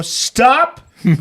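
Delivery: loud, slow stern order. Retold or imitated. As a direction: bark it out slowly and firmly. Retold telling wife off.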